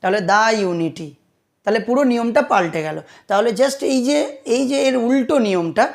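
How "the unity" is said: slow "the unity", with "the" as "daa". Shown as a demonstration. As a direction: say "the" with an open aa, slowly. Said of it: "দা উচ্চারণ করা হচ্ছে". ("the"-কে ধীরে "দা" উচ্চারণ)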